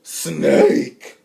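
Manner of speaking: breathy loud echo; exasperated. Retold or imitated. Breathy exasperated echo of Harley's insult. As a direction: sigh the word out.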